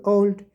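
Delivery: ओल्ड said as one unbroken syllable; said in one breath. Shown as a demonstration. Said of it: "इसमें तो मैं नहीं रुका बोलते हुए". (ओल्ड एक ही सांस में, बिना रुके)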